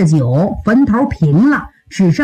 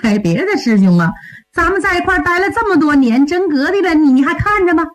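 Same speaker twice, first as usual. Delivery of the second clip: wheedling junior disciple, mostly higher; 小师弟央求; 5 semitones higher, faster than usual. Acted. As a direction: lightly plead with your senior, words running on. (小师弟软磨硬泡地求师兄)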